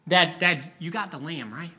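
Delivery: lightly voiced boy seeking reassurance; anxious little boy. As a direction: check nervously with Dad. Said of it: "one boy who comes up to the father".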